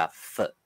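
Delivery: "佛" begun with an f sound; f as in French and English. Shown as a demonstration. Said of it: "有的所在P H".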